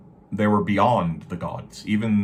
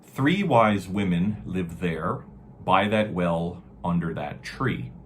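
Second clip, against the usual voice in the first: put-on slow, solemn reading of old verse; grave ancient myth telling. Shown as a demonstration. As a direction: read it like an ancient saga. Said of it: "So it says".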